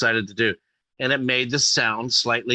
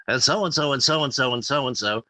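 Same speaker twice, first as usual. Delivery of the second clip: Regis impression; 3 semitones higher than usual. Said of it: "he'll say something like".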